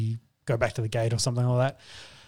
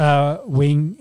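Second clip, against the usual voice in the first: numb mouth; 2 semitones higher, 4 dB louder than usual. Real, not acted. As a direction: ring slurred as wing. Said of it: "my mouth doesn't work properly".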